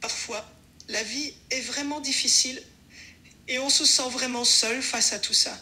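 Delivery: subdued sadness, halting between phrases; sad. Shown as a demonstration. Assistant acts sadness on request, sad. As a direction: let it out sadly with pauses.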